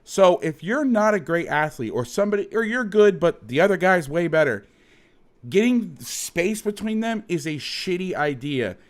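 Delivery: worked-up, insistent rant; soapbox rant. Real, not acted. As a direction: argue it hard from the soapbox. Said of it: "I'm getting my soapbox out".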